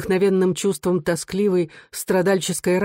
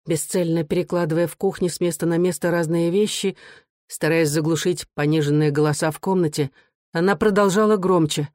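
usual speaking voice

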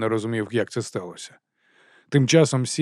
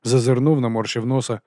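ordinary delivery

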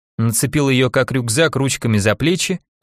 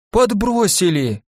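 gasped; 7 semitones higher, slower than usual. Acted. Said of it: "ахнула Глафира".

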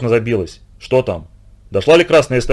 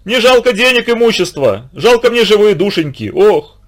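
much higher, sing-song wailing; keening lament; 7 semitones higher than usual. A narrator's reading. The wife keens on the riverbank for the drowned boy, wailing lament. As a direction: lament the lost, drawing out the words. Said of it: "всё причитала".

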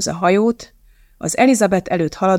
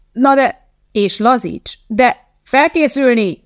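louder and higher, drawn out slowly; coxswain shout; 5 semitones higher, 4 dB louder, slower than usual. Acted. Coxswain calling the crew to get ready, shouting slowly. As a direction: bark the ready call down the boat, slowly. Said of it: "kiáltott a kormányos".

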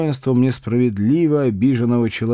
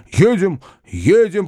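higher and louder, quick eager agreement; eager cry; 6 semitones higher, 4 dB louder, slower than usual. A narrator's reading. Uncle seizing the chance to leave, eager cry. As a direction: jump in eagerly. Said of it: "подхватил дядя".

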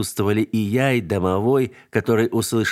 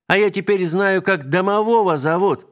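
высоко и громко, взахлёб; выпали новость с восторгом; детская радость; 10 semitones higher, 3 dB louder than usual. Acted. Ребёнок радостно кричит. (детский восторг)

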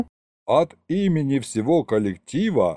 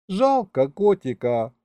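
sighing; 7 semitones higher, slower than usual. Acted. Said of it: "вздохнула Маша".

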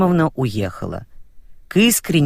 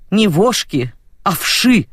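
stern correction; 3 semitones higher than usual. Acted. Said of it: "одёрнула его".

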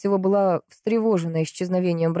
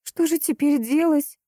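distressed question; 10 semitones higher, slower than usual. A narrator's reading. Anna shocked after bad news.

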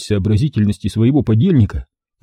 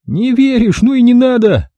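disappointed; 13 semitones higher, 4 dB louder than usual. A narrator's reading. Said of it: "разочарованно отступился Тура".

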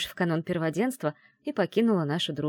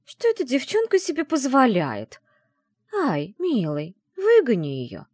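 high, louder, whiny spoiled woman; nasal whine; 7 semitones higher, 5 dB louder than usual. A narrator's reading. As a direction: whine it through the nose. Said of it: "прогнусавила". (капризно-гнусавым голосом)

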